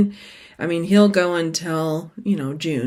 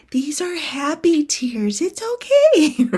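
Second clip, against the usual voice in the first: much higher, slow, tearful voice; teary reassurance; 9 semitones higher, slower than usual. Retold or imitated. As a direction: reassure through happy tears, slowly. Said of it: "I kept going".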